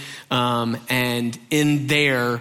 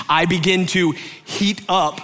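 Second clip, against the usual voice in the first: excited; 4 semitones higher than usual. Real, not acted. Excited storytelling.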